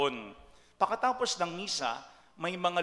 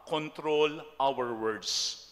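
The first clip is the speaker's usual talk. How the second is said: slow emphatic point; 2 semitones lower, much slower than usual. Acted. Recaps the second point.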